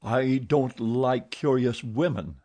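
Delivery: retort. Acted. Eric sharply retorting to Christine. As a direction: bite back at her. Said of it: "he retorted".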